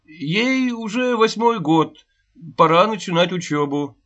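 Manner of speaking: pressing the point with growing heat; with fervour. A narrator's reading. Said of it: "с ещё большим жаром заметил". (горячо, с жаром, громче и выше)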